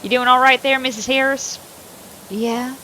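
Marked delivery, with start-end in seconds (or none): 0.0-1.6 louder redo in the sheriff's voice. Acted. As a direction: give the sheriff his voice back. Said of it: "I gotta do this voice again".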